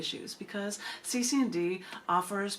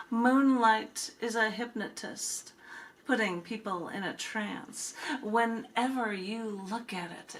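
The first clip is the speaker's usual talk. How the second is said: recited as a poem with long pauses between lines; spoken-word poem recital; poetry reading; slower than usual. Acted. Reads the poem Moonlight.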